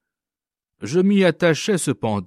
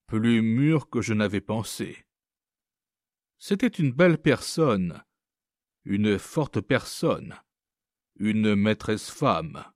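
plain reading voice

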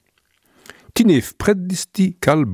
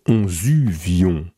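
slow and gentle; 3 semitones lower, slower than usual. Shown as a demonstration. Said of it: "Se fait tout doux".

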